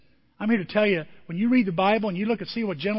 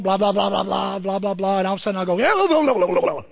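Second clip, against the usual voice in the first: mock rant; 4 dB louder than usual. Retelling phone quarrel with wife.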